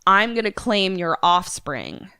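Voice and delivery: villain's threat in a faked Irish accent; bad Irish accent. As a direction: menace him with a put-on Irish brogue. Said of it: "my accent is going to be terrible".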